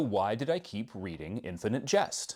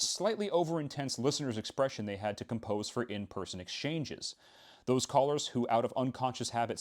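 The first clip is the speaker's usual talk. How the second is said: reading aloud. Acted. Reads passage from the book.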